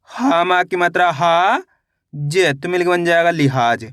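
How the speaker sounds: slow syllable-by-syllable blending; teacher spelling a word aloud for children; sounding out syllables. Shown as a demonstration. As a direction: stretch each syllable then join them. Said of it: "teacher sounds out syllables".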